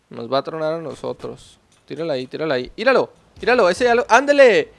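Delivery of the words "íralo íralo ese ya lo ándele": loud, high cheer; gleeful yell of victory; triumphant shout. Real, not acted. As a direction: celebrate the hit out loud. Landing a grenade kill.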